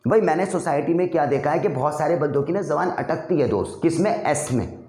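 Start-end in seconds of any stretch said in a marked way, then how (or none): none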